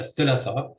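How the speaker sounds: "thilatha" with stress on its second syllable, LA. Shown as a demonstration. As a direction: put the beat on LA in "thilatha". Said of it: "with stress on the second syllable".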